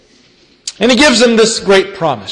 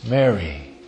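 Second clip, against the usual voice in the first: familiar tender tone; 11 semitones lower, 10 dB quieter than usual. A narrator's reading. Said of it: "perhaps in a tone that she was very familiar with".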